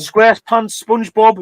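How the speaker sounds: title words in reverse order; backwards speech. Shown as a demonstration. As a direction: read the title back to front. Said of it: "how hard that was to say backwards".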